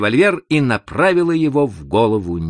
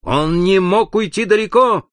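high, louder urgent exclamation; shouted cry; 10 semitones higher, 5 dB louder than usual. A narrator's reading. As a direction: cry out in a raised woman's voice. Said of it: "закричала Инесс".

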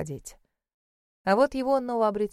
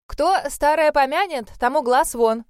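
loud, higher, brisk proverb; cutting in loudly; 6 semitones higher, 7 dB louder than usual. A narrator's reading. Mother interrupts her daughter, loud and higher. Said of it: "тут же перебила её мама Кло".

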